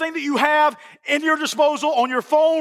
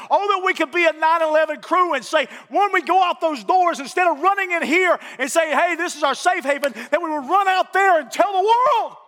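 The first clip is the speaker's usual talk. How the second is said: rising shout; 3 semitones higher than usual. Real, not acted. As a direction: push the call out with growing force. Preacher exhorting congregation to go out.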